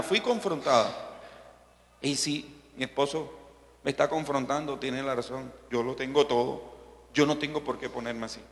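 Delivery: soft, low inner reasoning; reflective Ana. Acted. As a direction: quietly talk yourself round as Ana. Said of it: "yo me imagino la posición de Ana".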